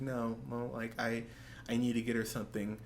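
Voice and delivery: soft, understated dejection; sad. Acted. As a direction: gently imitate someone feeling let down. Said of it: "he's really sad. He's like".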